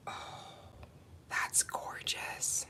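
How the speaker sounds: slow breathless whisper; awed whisper. Real, not acted. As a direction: whisper in awe. Awed whisper after gasp.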